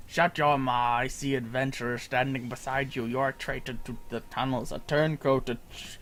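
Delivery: lightly voiced angry villain; gruff villain. Villain accuses the kobold of treason, mild gruff anger. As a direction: bark accusations at the traitor. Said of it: "They're all like".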